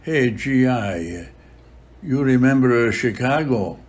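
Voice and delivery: slow, lightly put-on Italian accent; heavy Italian accent. Padre Pio calls to the departing GI, mild Italian accent. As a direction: imitate Padre Pio's Italian-accented English, slowly. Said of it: "with a heavy Italian accent".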